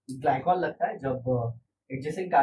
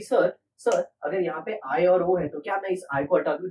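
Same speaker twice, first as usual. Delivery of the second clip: imagined student; 4 semitones higher, 4 dB louder than usual. Pretend. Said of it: "अब कोई ऐसा सोचेगा कि".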